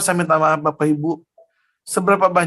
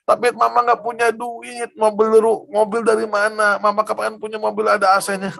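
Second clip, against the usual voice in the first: lightly voiced mother, pitched higher; complaining mother, imitated; 5 semitones higher than usual. Mother telling son she cannot afford a car, imitated complaint. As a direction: imitate a mother pleading her case, higher. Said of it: "Dia ngomong gini".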